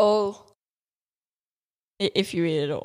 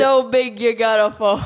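put-on New York accent; 2 semitones higher, 4 dB louder than usual. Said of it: "was that your New York accent".

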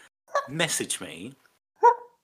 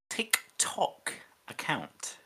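clock impression; 5 semitones higher, 5 dB quieter, much slower than usual. Shown as a demonstration. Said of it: "that's my clock impression".

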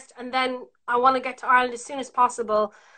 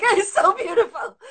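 mock gushing; 8 semitones higher than usual.

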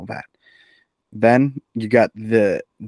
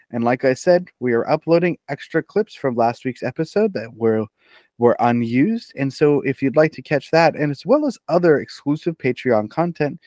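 podcast outro. Acted. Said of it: "let me show you how it's done".

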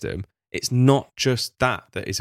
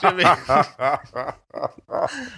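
laughing through the words; giggling mid-question; 6 semitones higher than usual. Real, not acted. Laughing at own joke.

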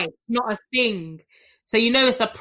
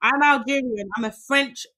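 mock French accent. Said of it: "I was just practicing my French accent".

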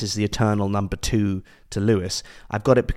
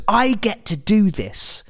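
much higher, building to a shout; giddy awe. Retold or imitated. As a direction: gush in disbelief, rising to a near-sung shout. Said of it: "he walks around ... and just goes".

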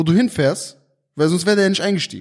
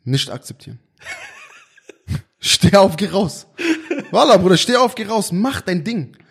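put-on arabic accent in german. Mock-serious advice to a friend.

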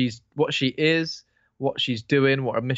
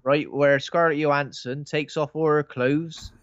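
put-on northern accent; 4 semitones higher than usual. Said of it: "I'm doing a northern accent".

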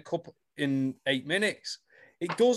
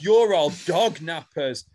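dramatic accusation; 5 dB louder, slower than usual. Retold or imitated. Acts out episode-ending accusation.

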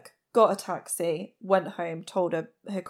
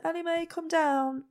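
mock shout; 9 semitones higher than usual. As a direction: imitate a parent calling a child downstairs. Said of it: "They said they'd shouted".

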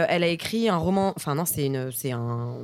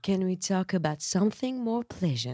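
slow, careful English title; English pronunciation; 6 dB quieter, slower than usual. Shown as a demonstration. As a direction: recite the title slowly in English. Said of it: "Et en anglais, ça se dit".

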